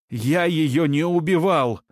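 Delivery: high, slow, insistent denial; pleading his innocence. Acted. Suspect protests innocence.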